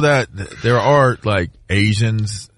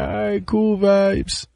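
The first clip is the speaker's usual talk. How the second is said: higher, slow laid-back patois; mock Jamaican reply; 9 semitones higher, 4 dB quieter, slower than usual. Himself replying to the pilot, slow mock patois. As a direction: answer back in a playful island accent. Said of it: "I'm like".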